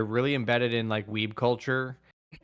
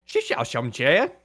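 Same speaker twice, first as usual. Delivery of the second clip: fake Mandarin; 4 dB louder, slower than usual. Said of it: "Let me try and do Chinese or Mandarin".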